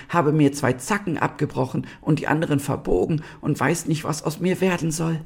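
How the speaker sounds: high-pitched, sorrowful lament; very sad fallen star. A narrator's reading. Fallen star tells the animals of its misfortune, deeply sad. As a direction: lament your fate in a small high voice. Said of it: "es klang so über die Maßen traurig".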